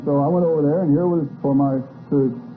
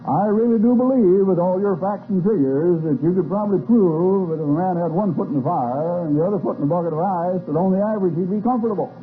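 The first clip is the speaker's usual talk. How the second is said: lightly imitated South Carolina drawl, a bit higher; a hint of a South Carolina drawl, teasing the Secretary; Mendel Rivers Southern drawl; 5 semitones higher than usual. Chairman needles the Secretary of Defense in a mild South Carolina drawl. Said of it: "in his best South Carolina drawl".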